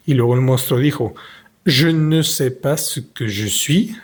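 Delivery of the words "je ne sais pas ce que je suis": lightly voiced monster. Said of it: "Il avait une voix grinçante".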